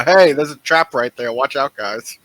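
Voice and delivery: half-hearted yell, loudest at the start, easing off; mock yelled warning. Player voicing a character warning the party of a trap, mock yell. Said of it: "Tanya's gonna yell".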